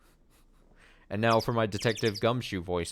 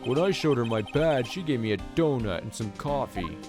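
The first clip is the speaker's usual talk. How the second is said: Detective Gumshoe voice. Acted. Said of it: "my Detective Gumshoe voice".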